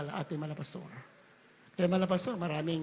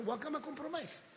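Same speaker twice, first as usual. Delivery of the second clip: soft quote; 8 semitones higher, 11 dB quieter than usual. Retold or imitated. Quoting the pastor softly.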